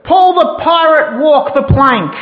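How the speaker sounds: loud, high, drawn-out command; pirate captain bellowing a sentence; furious captain's yell. Acted. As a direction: yell it slowly for the whole ship to hear. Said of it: "He yelled so the whole ship heard".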